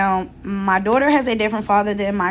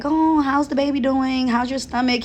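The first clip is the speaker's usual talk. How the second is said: higher-pitched, sweet doting question; loving child imitation; 5 semitones higher than usual. Son asking mom about the baby, lovingly. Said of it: "loving and so like".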